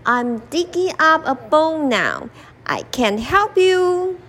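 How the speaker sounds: an animal shrugging off the lion; lightly voiced animal brushing off the lion; busy animal. Animal too busy to help.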